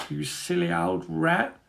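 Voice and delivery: soft, slow murmur; murmured to himself. A narrator's reading. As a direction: mutter it under your breath. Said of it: "he murmurs to himself".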